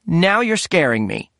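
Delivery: put-on indignant old mother snapping back; scolding mother. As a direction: put her grown son in his place. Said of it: "she said".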